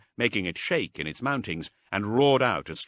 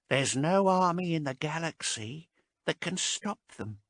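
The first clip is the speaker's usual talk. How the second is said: hopeless sadness; 10 semitones higher than usual. A narrator's reading. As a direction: give up all hope. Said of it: "shook his head sadly".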